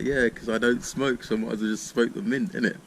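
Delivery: naive younger self. Retold or imitated. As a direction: sound proudly clueless.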